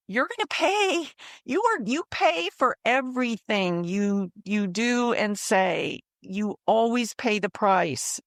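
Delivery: a lightly voiced threatening husband; husband's threat.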